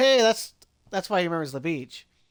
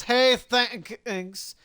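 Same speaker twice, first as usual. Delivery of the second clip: put-on lightly slurred drunk read; mock-drunk partygoer; drunk Finley; slower than usual. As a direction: play it a little tipsy, dragging the last words. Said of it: "apparently Finley was drunk".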